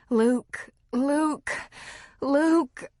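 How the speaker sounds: a wife calling her husband's name in passion, building; rising passion. Acted. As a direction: call his name as pleasure builds. Lovemaking, she calls his name.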